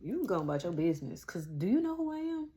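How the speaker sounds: mock sassy clapback; hammed-up don't you know who I am; sassy old me. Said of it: "old me be quick to tell them".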